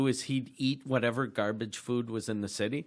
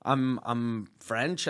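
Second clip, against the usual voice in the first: slow, unsure imitated answer; hesitant; 3 semitones lower, 3 dB quieter, much slower than usual. Audience member answering Cosby's question, hesitant. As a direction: stall on it as if unsure.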